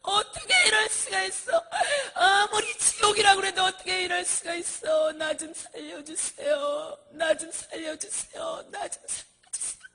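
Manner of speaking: high, wailing cry of despair; screaming woman. Retold or imitated. Damned woman begging for rescue in hell, screaming. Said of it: "소리를 지르는 거예요".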